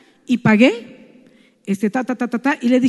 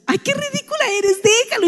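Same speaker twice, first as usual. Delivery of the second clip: much higher, teasing friend voice; 11 semitones higher, 5 dB quieter than usual. Retold or imitated. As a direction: squeal it like a friend who can't stop laughing. Friend crying with laughter teases her.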